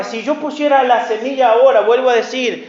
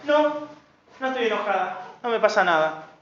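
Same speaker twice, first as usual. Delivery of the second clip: mocking denial; 6 dB quieter, faster than usual. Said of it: "Así, literalmente".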